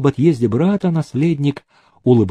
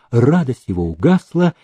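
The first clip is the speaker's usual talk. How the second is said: ordinary delivery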